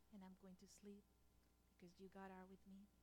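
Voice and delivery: hushed, soft whisper of a prayer; whispered psalm. Retold or imitated. Husband whispering a psalm over the sleeping baby, soft whisper. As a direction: breathe the verse so the baby sleeps.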